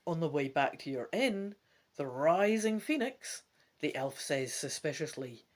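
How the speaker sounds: steady read-aloud voice; story narration. A narrator's reading. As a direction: narrate the adventure to a listener. Reading gamebook narration aloud.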